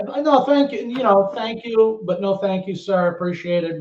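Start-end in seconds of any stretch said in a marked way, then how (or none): 0.0-0.8 higher, louder polite refusal; lightly acted good manners; retold politeness. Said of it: "Very polite". 1.3-3.8 retold courteous refusal, slightly lifted voice; lightly acted well-mannered thanks; very polite. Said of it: "Very polite".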